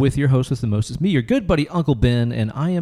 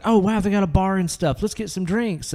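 higher, eager retelling; chirpy mock excitement; excited; 6 semitones higher than usual. Retold excited arrival at bar.

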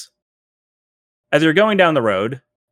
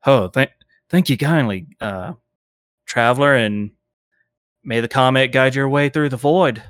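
lightly voiced preacher warning of judgment; a touch of a fire-and-brimstone stranger; doom-saying zealot. GM as the cultist warning the party off the town, mild sermon tone.

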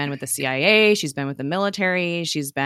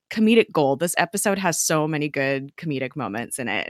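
ordinary talk

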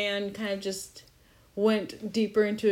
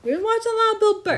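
put-on Boston accent; 12 semitones higher, 6 dB louder, much faster than usual. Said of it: "Boston accents".

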